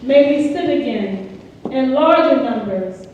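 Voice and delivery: slow, solemn statement read aloud; formal reading. Real, not acted. Leader reading a pledge while the group holds up fists, solemn.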